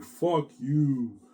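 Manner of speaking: retold anguished curse; tearful cursing. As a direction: imitate a crying wife lashing out. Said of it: "She's crying her way here".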